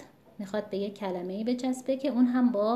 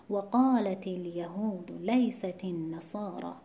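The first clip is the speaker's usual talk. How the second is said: slow, measured recitation of the verse; Quran recitation; 2 semitones lower than usual. Shown as a demonstration. Teacher reciting the verse correctly again for students. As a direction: recite it slowly, weight on قا of قالت. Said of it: "همینطور دوباره تکرار شده".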